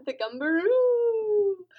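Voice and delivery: high, slow, swooping name; singsong laughing call; playful drawn-out call. Pretend. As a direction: stretch it out high through a laugh. Playfully calling out creature's name.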